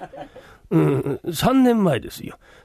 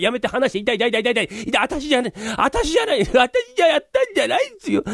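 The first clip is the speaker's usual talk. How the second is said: mock pained protest; 5 semitones higher than usual. 捕まえられて痛がる.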